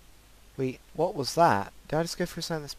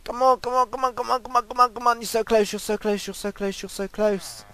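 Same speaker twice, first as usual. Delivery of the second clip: urgent urging; 7 semitones higher, 4 dB louder than usual. Real, not acted. Racing to reach safety.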